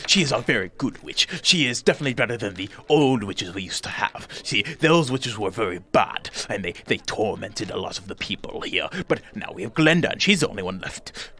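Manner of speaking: lightly voiced nervous host, fussing and apologetic; a flustered host invites the strangers in; fussy little host. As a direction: ramble politely, tripping over words. Bock on Glenda.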